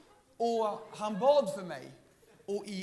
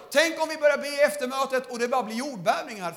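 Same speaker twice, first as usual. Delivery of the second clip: louder and higher, rousing the crowd; preaching shout; 4 semitones higher, 10 dB louder, faster than usual. Acted. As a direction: preach it at full force to the hall. (predikande rop)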